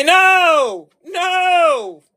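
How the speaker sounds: loud, high emphatic no; a firm shouted no. Real, not acted. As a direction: shut the idea down hard.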